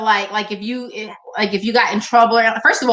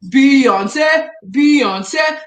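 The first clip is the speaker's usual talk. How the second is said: hyped; 4 dB louder than usual. Acted. Hyping a singer.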